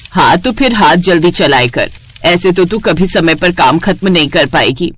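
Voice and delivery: a hint of a stern mother-in-law; scolding mother-in-law.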